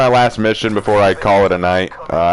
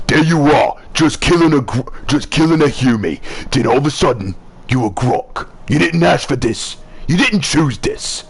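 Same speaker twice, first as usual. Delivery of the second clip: lightly voiced orc; a hint of a gruff orc; 4 semitones higher than usual. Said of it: "I do a pretty good orc impression".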